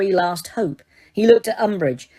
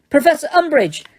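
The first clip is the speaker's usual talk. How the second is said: high, loud desperate cry; cry of alarm; 8 semitones higher, 4 dB louder than usual. A narrator's reading. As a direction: cry out to stop her. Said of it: "cried Hermione".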